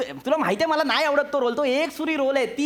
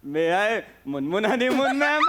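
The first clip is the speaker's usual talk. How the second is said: slow timid employee asking in; lightly voiced meek clerk; Sameer Chougule impression. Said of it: "आता मी आहे समीर चौगुले".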